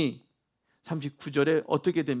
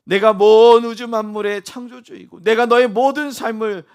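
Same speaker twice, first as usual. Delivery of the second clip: much louder, higher declaration of power; mighty proclamation; 5 semitones higher, 12 dB louder than usual. Acted. God declaring himself Creator to disciples, booming loud proclamation. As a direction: proclaim it at full force, as the Creator.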